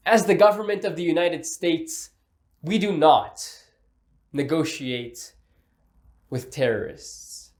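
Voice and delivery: long pauses before negotiate and with terrorists, slowing down; slowed with dramatic pauses. Shown as a demonstration. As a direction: let each pause land, drag out the end. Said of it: "and incorporate pauses".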